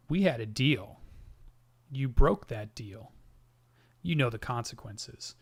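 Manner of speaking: a hint of a deep, guttural menace; lightly voiced monster, ominous and measured; barely shifted guttural voice delivering a threat. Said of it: "the voice is very deep, very guttural".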